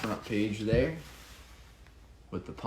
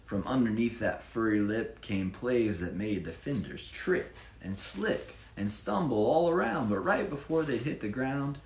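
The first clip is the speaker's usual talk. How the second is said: lively rhyming read-aloud; bouncy storybook reading voice; story narration; 3 semitones higher than usual. Acted. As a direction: read it like a picture book for children. Reads rhyming Chiefs picture book.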